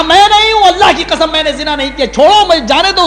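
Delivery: high, loud pleading oath; desperate denial. Acted. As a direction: beg them to let go, swearing by God. Accused man swears innocence.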